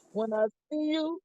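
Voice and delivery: laughing. Retold or imitated. Friend's joking threat retold.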